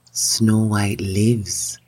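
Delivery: slow, grave magic mirror. Acted. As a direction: intone it slowly like a mirror. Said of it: "said the magic mirror".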